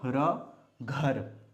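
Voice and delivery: syllable by syllable, drawn out; slow spelled-out syllables. Shown as a demonstration. Teacher sounding out a word slowly for kids. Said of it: "ये बना घ".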